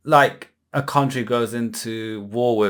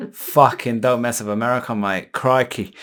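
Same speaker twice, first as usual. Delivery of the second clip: Australian twang; 2 semitones lower than usual. Pretend. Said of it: "it got me talking with an Australian twang".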